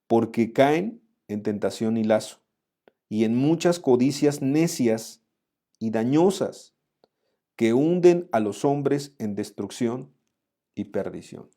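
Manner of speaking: slow, measured Bible reading; scripture reading. Acted. Pastor reads the verse to the congregation, slow and solemn. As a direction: read each phrase slowly, like holy text.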